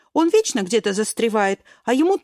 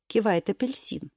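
usual speaking voice

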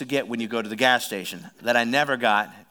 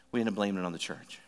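ordinary delivery

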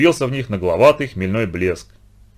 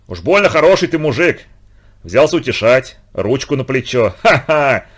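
ringing, tense and much louder; higher and loud, on the edge of hysteria; loud near-hysterical; 3 semitones higher, 4 dB louder than usual. Acted. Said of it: "Голос Прохора звенел громко, напряжённо, почти истерично".

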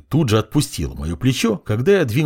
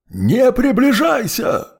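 high, slow, loud creature voice; monstrous warning; 14 semitones higher, 4 dB louder, slower than usual. A narrator's reading. Abyss creature warns the approaching hero, loud and monstrous. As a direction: warn him off like a beast.

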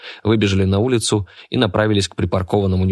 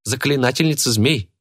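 put-on teasing girl; 7 semitones higher than usual. A narrator's reading. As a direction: taunt the witch in a high girlish voice.

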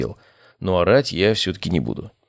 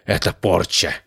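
scary voice. Pretend. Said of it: "страшным голосом не ляпнуть".

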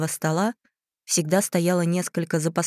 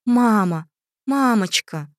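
higher and louder calling; 5 semitones higher, 5 dB louder, slower than usual. A narrator's reading. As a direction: call out longingly to mama. Girl calling out to doll.

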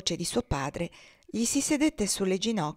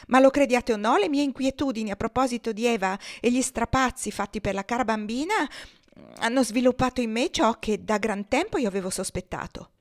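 higher, louder petulant complaint; aggrieved wife; 5 semitones higher, 5 dB louder than usual. Acted. Wife reproaching husband for neglecting her, higher and louder whining. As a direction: whine like a neglected invalid wife. Maria insists on her illness.

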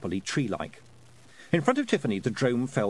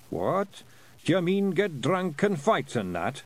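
a lightly higher, baffled Feegle; puzzled wee Scots pixie; 6 semitones higher, slower than usual. Acted. Daft Willie asking Rob, lightly higher puzzled Scots. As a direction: dim little clansman not getting it.

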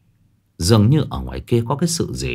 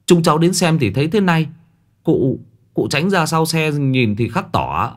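put-on timid young man; 4 semitones higher than usual. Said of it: "rụt rè đi lên khoanh tay".

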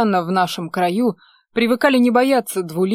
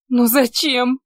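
pitying; 5 semitones higher, slower than usual. A narrator's reading. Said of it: "с жалостью спросила зрящая".

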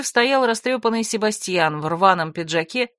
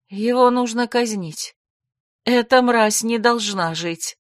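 slow and cold, no feeling at all; cold, emotionless; 3 semitones higher, slower than usual. Acted. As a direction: pronounce the sentence like an unfeeling zombie. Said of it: "Таким холодным, безэмоциональным голосом?".

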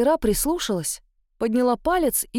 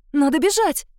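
louder, stressing бежать; louder panic; 5 semitones higher, 4 dB louder than usual. A narrator's reading. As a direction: push бежать out harder. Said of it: "Запаниковала я".

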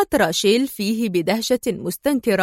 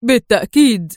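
emphatic, louder agreement; eager exclamation; 5 dB louder than usual. A narrator's reading. Man eagerly joining Adham, emphatic exclamation. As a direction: call it out without hesitation. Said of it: "هتف الرجل".

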